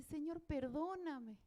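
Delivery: slow, hushed "Señor, perdóname" as she begins to cry; quiet, slow begging for forgiveness; soft tearful plea. Retold or imitated. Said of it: "yo empecé a llorar y dije".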